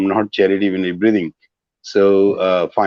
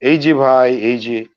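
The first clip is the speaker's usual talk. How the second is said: raised, louder start that eases off; calling out; 5 semitones higher, 4 dB louder than usual. Shown as a demonstration. Teacher demonstrating Bangla for excuse me, calling out. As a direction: hail someone to get their attention.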